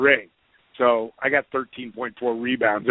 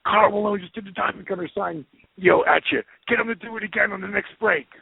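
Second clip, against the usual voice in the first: imitating eager buddy; 5 semitones higher than usual. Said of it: "He goes".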